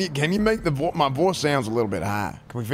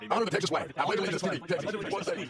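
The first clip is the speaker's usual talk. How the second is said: pledge; 4 semitones higher than usual. Acted. Recites pledges of allegiance.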